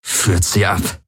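slow, cold order from the captor; Valyr's command. A narrator's reading. Captor ordering the guards, slow and cold. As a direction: lead them away, slow and cold. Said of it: "sagte Valyr".

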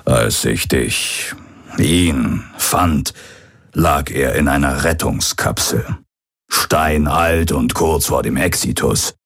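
lightly voiced old pirate recounting the past; a hint of rueful old pirate, pausing as he recalls. Old pirate recounts finding the original. (leicht angedeuteter alter Pirat, nachdenklich)

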